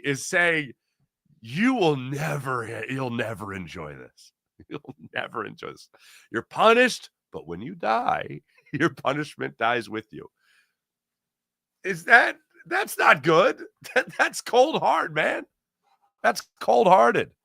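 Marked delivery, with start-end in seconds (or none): 1.4-10.3 mocking voice. Mocking the Rose ruling's message. 11.8-17.3 surprised. Real, not acted. Reacting to comment.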